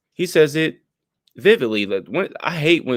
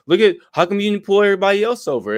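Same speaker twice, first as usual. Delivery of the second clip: mock indignant protest; 8 semitones higher, 3 dB louder, faster than usual. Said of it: "And then he's like".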